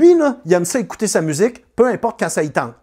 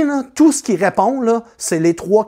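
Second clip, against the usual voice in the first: ordinary talk, nothing marked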